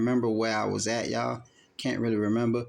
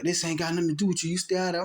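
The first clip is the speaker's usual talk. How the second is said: hint of a dismissive man; 6 semitones higher, much faster than usual. Boyfriend telling kid stay out.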